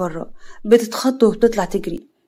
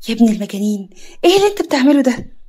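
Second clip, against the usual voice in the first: shocked outcry; 2 semitones higher, 4 dB louder, faster than usual. Acted. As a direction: cry out in shock at what he did. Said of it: "يا رب صدمة".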